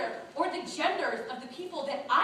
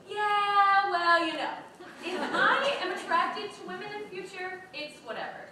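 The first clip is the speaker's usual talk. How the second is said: mock casual disclaimer; 7 semitones higher, 5 dB louder than usual. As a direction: play a breezy younger self, pitched up. Quotes her former breezy disclaimer.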